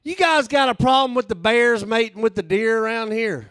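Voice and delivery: high, loud earnest tourist voice; dead-serious tourist. Retold or imitated. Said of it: "he was dead serious".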